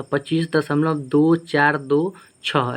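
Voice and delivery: slow, each of "दो चार दो छः" set apart; digit by digit. Shown as a demonstration. Teacher repeating the right way to read decimals, slow digit by digit. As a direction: count out "दो", "चार", "दो", "छः" singly. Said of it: "एक एक करके पढ़ते हैं".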